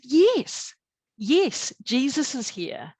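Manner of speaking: high, loud retold yes; emphatic insistence. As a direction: insist joyfully against his doubt. Retold insisting to doubting husband.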